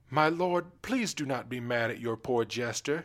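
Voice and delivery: high pleading plea; pleading maid. Acted. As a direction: beg the king gently. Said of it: "she began".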